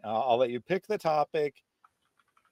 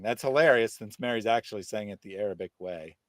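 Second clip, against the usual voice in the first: ordinary talk, nothing marked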